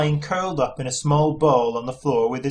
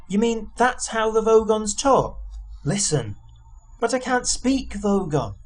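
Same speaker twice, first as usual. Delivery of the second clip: Arthur voice; 9 semitones higher than usual. A narrator's reading. Arthur's voice, higher.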